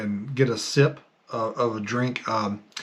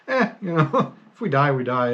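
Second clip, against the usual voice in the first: mock nonchalance; 3 semitones higher, 3 dB louder than usual. Voices careless eighties attitude, laughing.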